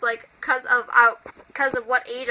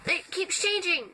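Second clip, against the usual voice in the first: real slip into a higher voice; voice change; 6 semitones higher, 4 dB quieter than usual. Real, not acted. Vlogger explaining their changing voice, pitch jumping up. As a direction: voice jumps up in pitch mid-sentence. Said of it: "it just changed".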